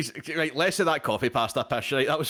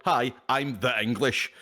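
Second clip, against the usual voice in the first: quoting friend; 4 semitones lower, slower than usual. Retold or imitated. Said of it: "the classic Kira Zepug quote".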